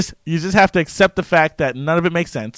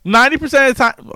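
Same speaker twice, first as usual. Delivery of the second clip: put-on English accent; 9 semitones higher, 6 dB louder than usual. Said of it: "talk to myself in an accent".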